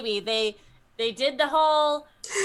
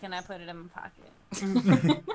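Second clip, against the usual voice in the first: laughing; 4 semitones lower than usual. Real, not acted.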